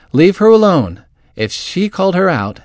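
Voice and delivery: firm defence. A narrator's reading. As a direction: push back at an angry crowd. Megan defends Alicia against angry crowd.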